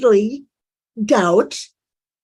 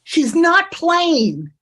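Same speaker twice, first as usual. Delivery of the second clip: incredulous echo; 6 semitones higher, slower than usual. Retold or imitated. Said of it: "she says".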